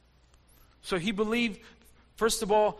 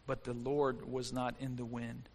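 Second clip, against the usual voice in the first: hushed scripture reading; 7 semitones lower, 10 dB quieter than usual. Acted.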